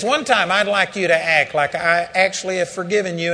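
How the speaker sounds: the Lord gently echoing the rebuke back to Andrew; God's gentle rebuke. Retold or imitated. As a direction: say it as a patient father. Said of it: "He says".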